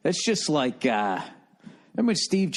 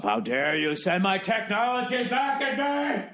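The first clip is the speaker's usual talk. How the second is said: lightly voiced, slow, indignant villain; a hint of an offended tycoon; pissed-off Bill Gates; 7 semitones higher than usual. Bill Gates scolding drones sent back at him, mock indignant. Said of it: "He's all pissed off".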